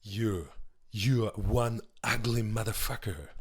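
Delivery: put-on low, slow, menacing Austrian-accented line; movie quote as Arnold. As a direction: growl it at the monster. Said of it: "That's from Predator".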